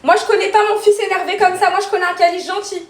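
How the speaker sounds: stern motherly reproach; firm scolding. Real, not acted. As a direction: set him straight, firmly. Mother scolding upset son.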